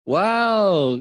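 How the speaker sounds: loud, high, drawn-out wonder; amazed. Shown as a demonstration. Parent reacting to a child's achievement, amazed. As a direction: let out a big impressed exclamation. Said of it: "Caranya adalah dengan".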